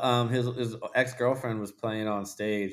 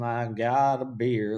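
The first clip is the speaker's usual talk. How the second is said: slow, drawn-out country parody; mock country singer; 3 semitones higher, 3 dB louder, much slower than usual. Friend mocking mainstream country music, slow singer parody. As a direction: stretch it like a commercial country hook. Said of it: "it wasn't like".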